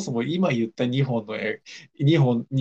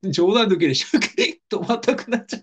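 laughing through hiccups; 8 semitones higher than usual. Real, not acted. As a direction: speak between hiccups, amused. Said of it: "しゃっくり止まんなくなっちゃって".

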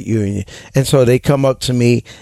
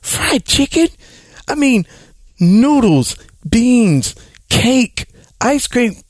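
high, squealing disbelief at a non-eater; mock food lover; 12 semitones higher than usual. Radio host mocks food lovers scolding the caller, high incredulous squeal. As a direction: play the appalled food lover, pitch way up. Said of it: "there are other people like".

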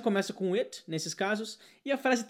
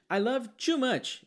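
higher, very slow I love too much; mock Brazilian learner; 6 semitones higher, much slower than usual. Teacher imitates the Brazilian learner's mistake, higher and slow. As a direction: drag out the student's error. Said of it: "Esse seria o brasileiro falando".

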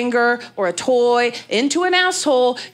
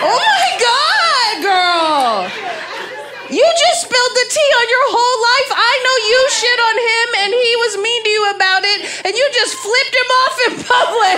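gleeful gossipy squeal; 13 semitones higher than usual. Acted. Mock gossip about a heckled audience member.

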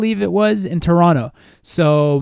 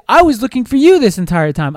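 mimicking girlfriend; 6 semitones higher, 5 dB louder than usual. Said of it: "And she was like".

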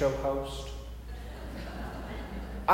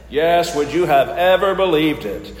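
game show host; 4 dB louder than usual. Pretend. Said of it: "my best game show voice".

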